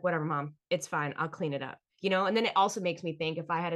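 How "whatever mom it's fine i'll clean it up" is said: resigned whatever. Retold or imitated. To her mom about the turkey, resigned. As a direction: wave it off and give up. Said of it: "I'm just like".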